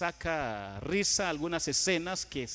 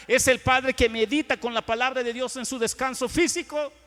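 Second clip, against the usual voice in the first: building sermon litany, rising and louder; emphatic preaching; 5 semitones higher, 6 dB louder than usual. Real, not acted. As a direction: drive each item home from the pulpit. Preaches a repeated list at force. (predicación enfática en crescendo)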